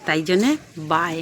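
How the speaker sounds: talking around a toothbrush; words blurred by toothpaste foam; while brushing teeth. Real, not acted. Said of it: "আমি এখন দাঁত মাজছি".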